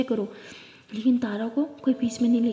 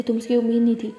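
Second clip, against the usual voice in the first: scolding; 3 dB louder than usual. Acted. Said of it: "तारा को बहुत डांटती है".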